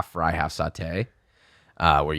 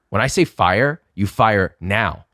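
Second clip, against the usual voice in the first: slightly raised, with a slow, drawn-out NOW; retold stern order; 2 semitones higher, 4 dB louder, slower than usual. Chef correcting a cook, stern order. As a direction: lay down the law as an imitated boss.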